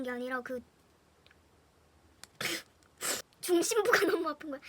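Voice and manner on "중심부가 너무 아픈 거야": laughs while telling of the pain, a bit louder; half laughing at the memory of the hurt; giggly pained telling; laughing through it. Real, not acted. Retelling painful fall, laughing.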